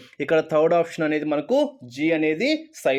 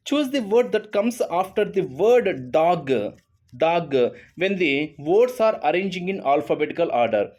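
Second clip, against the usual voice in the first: reading the question slowly; much slower than usual. Shown as a demonstration. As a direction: read the question out word by word. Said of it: "reads question aloud". (ప్రశ్నను నెమ్మదిగా చదవడం)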